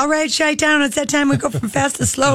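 lightly voiced smooth TV host intro; a hint of a showman announcing the next act; Don Cornelius. Retelling the show's opening, a light host voice. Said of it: "And Jo- Don Cornelius".

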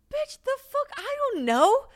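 very high, incredulous squawk; exasperated disbelief. Retold or imitated. Answering fans who ask where they'll live, an incredulous high squawk. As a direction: throw it back like the question is absurd.

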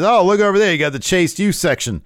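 loud, high mock wrestling promo; Waller. Waller belittling a rival's debut, scornful. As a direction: taunt like a heel on the mic. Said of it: "he says".

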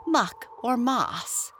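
slow, prim little retort; lightly voiced grub. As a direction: point out your clean face.

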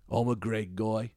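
put-on I'm a Greg guy slow, at normal pitch, in a Liverpool accent; I'm a Greg guy, slow and even in a Liverpool accent. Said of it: "this accent keeps coming back".

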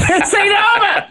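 mock threat in a very high, silly voice; high-pitched mimicry. Cohost replaying the cartoon threat after laughing, high squeal.

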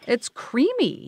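slow, with a mouthful; chewing. Real, not acted. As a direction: talk around a bite. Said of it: "Sorry for the chewing sounds".

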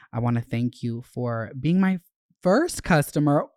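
lively letter read, words tumbling fast at times; reading a letter aloud. Acted. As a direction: read the fan note aloud with gusto. Reads fan's note aloud.

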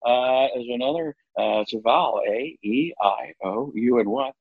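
lightly voiced, bumbling Goldblum; a hint of Goldblum's halting ramble; Jeff Goldblum impression. A light Goldblum bumbling about his favourite letter. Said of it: "it's the bumbling around".

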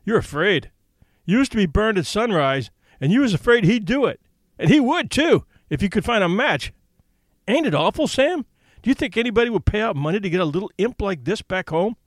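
worried sidekick complaining, voiced lightly; lightly voiced fretful Bill. Bill's voice in story.

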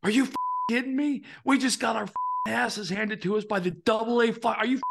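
high, strained, angry yell at the players; furious coach rant. Retold or imitated. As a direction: blow up at the team after an embarrassing loss. Retelling coach's angry bus rant.

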